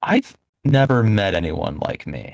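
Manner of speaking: low, drawn-out voice. A player voicing their character by the fountains, in a lower tone. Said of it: "speak in a lower tone".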